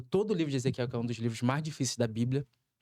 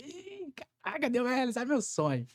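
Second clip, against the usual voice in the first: high, eager burst of joy; a dream about to come true, retold gleefully; excited; 9 semitones higher than usual. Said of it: "E eu comecei a ficar alegre". (alegria empolgada, bem mais aguda)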